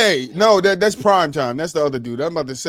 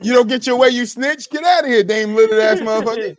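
trash talk him, laughing inside; mock angry; 4 semitones higher than usual. Playful insult run.

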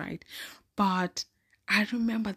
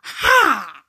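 loud, high gleeful laughter; triumphant laugh; 11 semitones higher, 7 dB louder than usual. Real, not acted. Teacher praises her.

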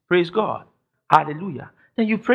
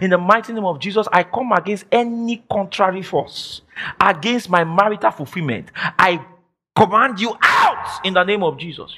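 firm, rising prayer, ending in a shout; demo prayer of command. Shown as a demonstration. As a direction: command the enemy out, building to a shout. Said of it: "So you say".

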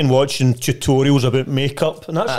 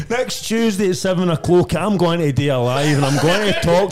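mock announcement; 4 semitones higher than usual. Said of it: "Next fucking Tuesday, I says".

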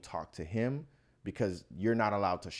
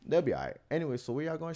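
easy, unbothered reassurance; very calm; 6 semitones higher, faster than usual. Retold or imitated. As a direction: brush it off calmly in an even voice. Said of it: "I'm very calm".

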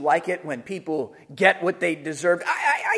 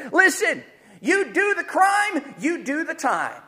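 mock stern judge; 7 semitones higher than usual. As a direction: hand down the sentence. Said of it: "say something like this".

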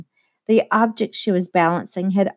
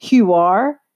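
incredulous; 6 dB louder than usual. A narrator's reading. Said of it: "looked at her incredulously".

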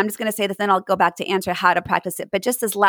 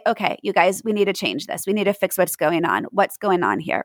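calm and steady; 4 semitones lower than usual. Shown as a demonstration. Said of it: "that one breath can say".

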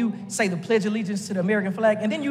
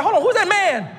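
mock surprise; 7 semitones higher, 3 dB louder than usual. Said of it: "I'm like".

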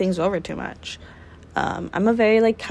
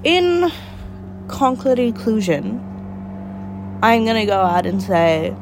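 formal speech; slower than usual. Acted. Mock grand closing statement.

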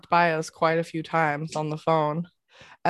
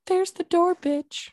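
high sassy brush-off; sassy dismissal; 13 semitones higher than usual. Acted. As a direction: kick them out with attitude. Mock dismissal of sober listeners.

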